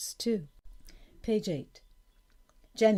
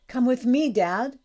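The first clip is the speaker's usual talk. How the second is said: raised, louder excited invitation; eager urging; 7 semitones higher, 8 dB louder than usual. A narrator's reading. Daughter with a surprise for Dad, eager. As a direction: urge him along, voice lifted.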